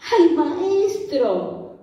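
drawn-out "Ay, maestro" cried out high and slow; stretched-out cry for the master; mock cry. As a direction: wail "Ay, maestro" like a panicked disciple. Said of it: "y gritó".

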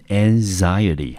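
"anxiety" said ang-ZAI-uh-tee; pronunciation model. Shown as a demonstration. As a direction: model "anxiety" clearly with stress on the second syllable, "zai". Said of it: "这个字念成".

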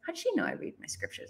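hushed puzzled aside; surprised whisper to herself. Retold or imitated. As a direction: whisper it like a thought you didn't mean to say aloud. Inner thought, surprised aside.

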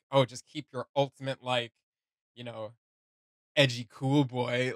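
slow, lightly voiced cool-guy drawl, teasing; hint of a too-cool cowboy, a bit slow; mock cowboy coolness. Reviewer mocking the character's edgy lines, slow mock cowboy cool. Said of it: "said with that, like, cowboy coolness".

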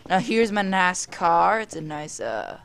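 put-on drawled tour-guide accent. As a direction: show guests around in a put-on accent. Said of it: "speaking in this accent".

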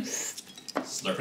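whispered. Acted. ASMR slurp podcast name joke.

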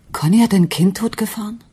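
can't believe what she hears; shocked disbelief. Acted. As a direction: gasp it out in horror. Wife learns husband killed child.

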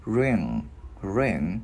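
"Ring" with the NG left humming at the end; lingering nasal NG closing "Ring"; ringing final NG. Shown as a demonstration. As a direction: let the NG in "Ring" resonate. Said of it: "Cái mình ngân cái chữ ngờ ra".

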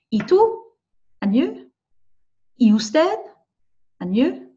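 high, rising question modelled for students; repeat-after-me model. Shown as a demonstration. Teacher models phrases for students to repeat. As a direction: ask it back clearly for the class to copy. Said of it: "So repeat after me".

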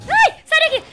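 very high, loud shriek; startled scream. Real, not acted. Gamer startled by a monster, screaming at it to leave. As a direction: scream to drive it away.

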